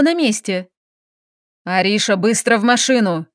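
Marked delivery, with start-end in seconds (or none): none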